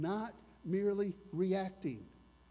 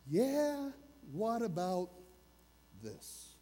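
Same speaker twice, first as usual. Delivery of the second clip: contrary challenge; slower than usual. Acted. Inner contrary person questioning the preacher, lightly contrary. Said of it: "there's this contrary person in me".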